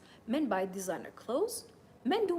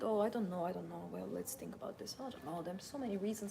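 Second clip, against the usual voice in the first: much softer, dithering mumble; hesitant doubt; 2 semitones lower, 6 dB quieter than usual. Retold or imitated. Woman second-guessing herself about wealth, soft dithering. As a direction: shrink back, unsure of yourself. Voicing women doubting themselves.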